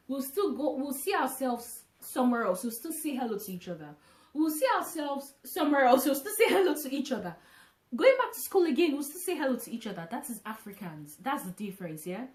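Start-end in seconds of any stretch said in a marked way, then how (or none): 4.3-9.4 emphatic, louder. Real, not acted. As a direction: say it again louder and harder. Repeats the same words louder.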